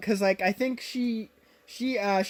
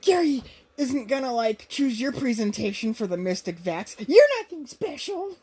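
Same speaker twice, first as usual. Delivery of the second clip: catty sneer; 3 semitones higher than usual. Retold or imitated. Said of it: "she's like".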